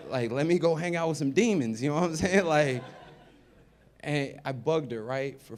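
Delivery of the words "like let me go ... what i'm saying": laughing. Real, not acted. Laughing through joke.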